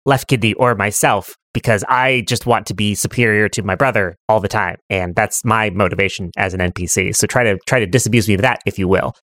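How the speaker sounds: lightly voiced stubborn twin, sinking low; haughty right kidney. Right kidney challenging players to persuade him, mildly haughty. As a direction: lay down terms with measured superiority. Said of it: "Right Kidney goes".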